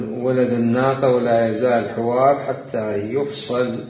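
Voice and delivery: slow, deliberate classical Arabic reading; formal reading aloud. Real, not acted. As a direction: read each definition out with weight. Reads a book definition. (قراءة متأنية لنص بالفصحى)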